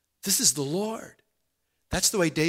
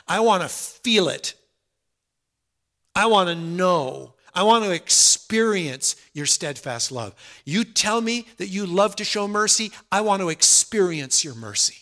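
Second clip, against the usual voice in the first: fervent prayer; 3 semitones higher, 5 dB louder than usual. Acted. Heartfelt prayer building in force.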